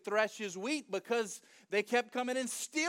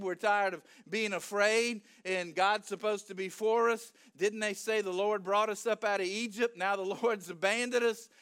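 going off. Acted. Gideon venting to the angel about God, acted rant. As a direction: go off on a run of grievances. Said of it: "Gideon's just going off".

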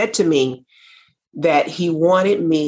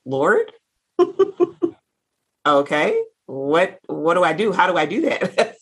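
astonished laughing reply. Retold or imitated. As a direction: caught off guard, giggling at the idea. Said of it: "And I was like".

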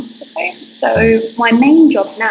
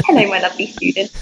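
trademark greeting; faster than usual. Shown as a demonstration. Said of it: "I must greet everybody that way".

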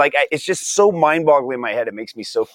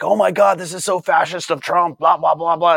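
mocking outrage; 6 semitones higher than usual. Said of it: "everybody was like".

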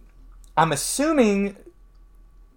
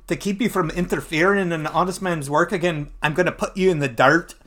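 mock Scottish villain; Scottish accent; 2 semitones higher, faster than usual. Crossbow assassin meeting his foe, Scottish accent. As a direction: put on a Scottish brogue. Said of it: "I don't know why he's Scottish".

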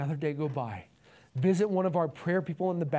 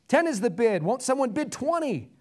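high, loud bidding call; auctioneer; 7 semitones higher, 4 dB louder than usual. Acted. Auctioneer urging bidders on, calling out high. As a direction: appeal to the whole room for more. Auctioneer calls for higher bids.

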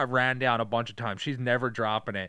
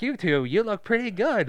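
Jonathan Lovett impression; 8 semitones higher, 3 dB louder than usual. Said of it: "You do his voice really good".

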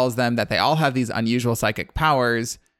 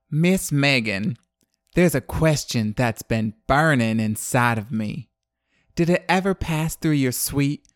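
imitated Southern accent. Host imitates Dana asking Megan about money, in a put-on Southern accent. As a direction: play a tipsy Southern lady sweetly needling, in a Southern accent. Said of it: "which I'm gonna try to imitate".

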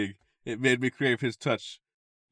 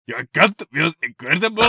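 louder, higher mock passion; hammed-up groan line; 7 semitones higher, 9 dB louder than usual. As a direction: overplay the lover's moan. Voicing the groaning hero.

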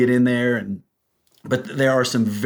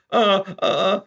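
lips quivering; 7 semitones higher, slower than usual. Retold or imitated. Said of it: "my lips quivering".

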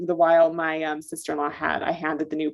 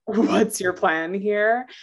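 slow repeat of question; much slower than usual. Retold or imitated. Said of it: "story of".

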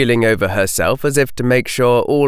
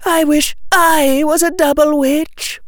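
put-on high, girlish wishing voice; wistful. Hannah wishing she were a double witch, wistful. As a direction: wish aloud in a high girl's voice.

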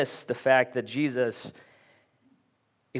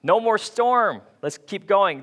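higher-pitched pretend wowed cheer; mock excitement; 4 semitones higher, slower than usual. Preacher imagines disciples after the storm, mock excitement. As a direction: act out imagined delight, pitched up. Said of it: "They weren't excited".

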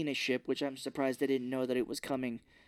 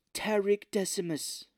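slow, higher drawn-out naming; grand, put-on villain address; mock theatrical villain; 6 semitones higher, slower than usual. Villain singling out the blacksmith, mock theatrical.

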